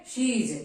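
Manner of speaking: she is joined into she's; she's as one word. Shown as a demonstration. Teacher showing learners how to pronounce she is, joined as she's. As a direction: model she's as a single syllable. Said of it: "इस तरह से pronounce करेंगे".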